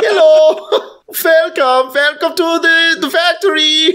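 high, cheery kobold voice with a laugh in it; kobold greeter voice. Acted. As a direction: play a grinning kobold greeting visitors. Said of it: "They all talk like that".

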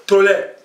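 "tolet" ending in an open e sound; regional variant. Shown as a demonstration. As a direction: say "tolet" as some speakers do. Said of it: "Il y a des gens qui disent".

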